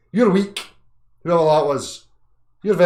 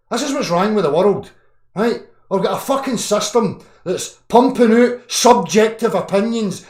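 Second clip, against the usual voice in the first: higher, louder, raging at the world; furious rant; 6 semitones higher, 5 dB louder than usual. Real, not acted. Ranting at commenters who judge him, furious shouting. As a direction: shout them down with real anger.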